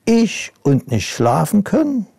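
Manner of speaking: amused disbelief, pitch jumping up; incredulous ghost. Acted. Ghost scoffs at the princess, high incredulous question. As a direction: scoff at the very idea, voice leaping high. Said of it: "Das Gespenst lachte kurz auf".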